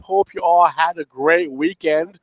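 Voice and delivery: stuffy nose from a cold; blocked-nose nasal voice. Real, not acted. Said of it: "the nasally cold voice".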